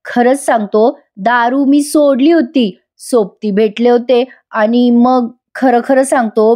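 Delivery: fake dramatic apology. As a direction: ham up the sorry, milking every word. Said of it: "नाटकी नाटकी बोलतोय". (नाटकी, खोटी माफी मागणारा आवाज)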